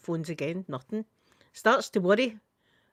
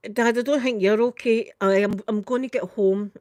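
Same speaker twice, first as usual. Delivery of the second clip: louder, firm pleading; insistent; 5 dB louder than usual. Retold or imitated. To her dad on the phone, loud and insistent. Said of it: "I'm going".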